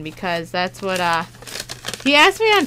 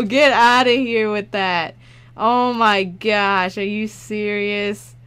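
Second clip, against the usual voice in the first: amazed; 4 dB louder, slower than usual. Real, not acted. Still reeling from the card.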